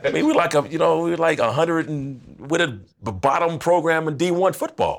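high, laughing disbelief about the team; chuckling while talking; laughing through words. Real, not acted.

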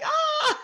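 high, loud playful shriek; sudden high comic yelp; mock shriek. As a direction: let out a silly squeal. Mock shriek in bus story.

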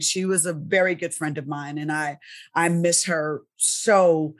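holding back tears for a lost friend; grieving a friend on her birthday, fighting tears; near tears. Real, not acted. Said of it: "I'm gonna start crying".

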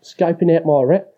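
"route" mimicked to rhyme with "out"; mock mispronounced route. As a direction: mockingly quote "route" with the wrong vowel, as in "rout". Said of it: "talk like a fucking Kiwi".

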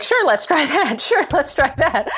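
timid agreeable partner. Retold or imitated. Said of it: "every idea was like".

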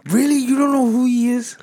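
loud, high disbelieving shout; loud sharp voice. Real, not acted. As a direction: yell it out in shock. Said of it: "why you yelling at me?".

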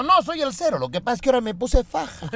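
indignant number. Acted.

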